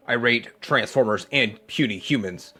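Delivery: lightly voiced boastful dragon robot. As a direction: play a smug toy dragon rating things. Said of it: "I am Gigapower Super Rater".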